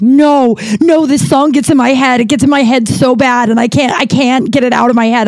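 a hammed-up woman panicking; panicked. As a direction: imitate her panicking over the song. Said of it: "weirdly panicked".

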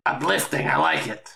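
understated, deadpan sarcasm; sarcastic. Real, not acted. Player reacting to the outpost's name, sarcastic. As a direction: say it drily, barely marking the sarcasm. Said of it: "I was being sarcastic".

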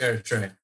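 Eritrea said "air-ih-TRAY-uh"; own pronunciation with "ay". Shown as a demonstration. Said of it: "I pronounce it".

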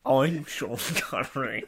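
slow, badly imitated star introduction; deliberate, unconvincing impersonation; Sean Connery. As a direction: stretch the name in a mock-Scottish voice. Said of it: "You don't sound like him".

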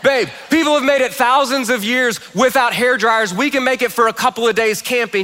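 acted spousal objection; mock protest. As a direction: plead the case against it, lightly hammed-up. Acted protest to his wife.

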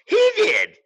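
high, loud accusing shout; wife calling out the culprit; pointed shout. Retold or imitated. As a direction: yell it out and point at him. Wife accuses friend in waiting room.

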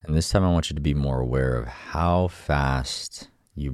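calm guided meditation voice. Acted. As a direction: gently guide the breathing. Leads a breathing exercise.

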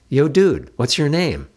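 put-on bright high teenage girl calling yo dude; a loud, high brash teen girl greeting a stranger; high, loud cheeky teen. A narrator's reading.

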